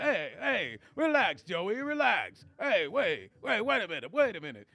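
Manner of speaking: lightly voiced nervous New York comic; a hint of a jittery old-school standup; Rodney Dangerfield. Teasing Joe in a mild Rodney Dangerfield voice. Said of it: "why did I sound like that one".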